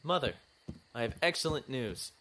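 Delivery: calls out his news a bit too eagerly; eager announcement. Acted. Shh, quiet, you'll wake Harriet.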